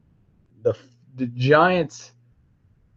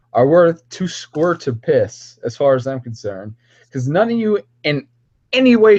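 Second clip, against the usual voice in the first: worked-up ranting at his critics; heated rant; 4 semitones higher than usual. Real, not acted. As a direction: tear into the community. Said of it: "mini rant".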